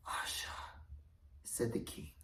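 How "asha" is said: to himself. Acted. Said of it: "more to himself".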